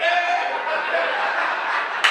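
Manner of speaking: very high unvoiced gasp-shriek, laughing; mock shriek of shock. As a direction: squeal like a horrified news viewer. Mugshot released, mock shock.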